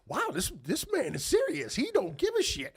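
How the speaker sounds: reliving the disbelief at full voice; amazed exclamation. Retold or imitated. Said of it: "And I was like".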